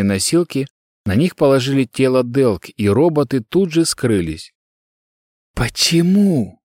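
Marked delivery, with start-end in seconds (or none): 5.5-6.6 high, slow, whimpering question; whimpering in despair. Acted. Girl on the floor, whimpering to herself in despair. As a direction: whimper it to yourself, hopeless. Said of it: "поскуливая от отчаяния".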